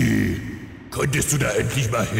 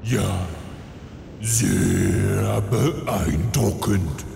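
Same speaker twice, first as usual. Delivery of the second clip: sarcastic; 2 semitones lower, much slower than usual. Acted. Sarcastic praise.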